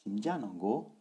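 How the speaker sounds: "Simja nango" going low, high, low, high; low-high tone pattern. Shown as a demonstration. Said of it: "Quatrième ton o".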